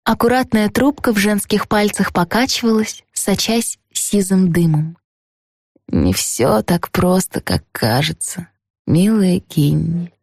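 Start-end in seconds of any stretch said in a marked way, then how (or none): 5.9-10.1 lightly voiced old lady, slow; a hint of a musing grandmother. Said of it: "философствовала леди Милдред".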